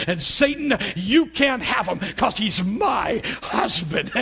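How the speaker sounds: defiant rebuke. Retold or imitated. Wife defies Satan in prayer.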